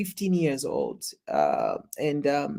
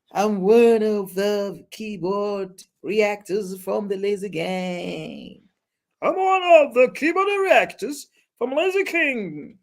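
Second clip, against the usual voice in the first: mocking a commenter; 2 semitones higher than usual. Mock-reading chat comment, laughing.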